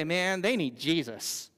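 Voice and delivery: put-on slow, drawn-out Southern lady accent; put-on Southern accent, drawing out Jesus. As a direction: stretch it out with a Southern twang. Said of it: "I always have that accent".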